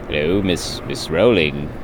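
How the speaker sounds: low, lightly put-on Cockney greeting; a hint of a Guy Ritchie Cockney; mock Cockney. Greeting J K Rowling in a mock Cockney. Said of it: "I went full Guy Ritchie on with the accent".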